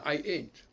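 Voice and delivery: "ain't" with the ai said à la française; French-style pronunciation. Shown as a demonstration. Lecturer giving an example of borrowed pronunciation, French-style ai. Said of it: "ils les prononcent à la française".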